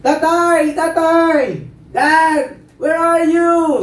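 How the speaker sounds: high, drawn-out calls for Dad; acted cry for help; shouting child. Trapped child calling father from burning house, high shouting. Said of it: "At sumisigaw niya siya".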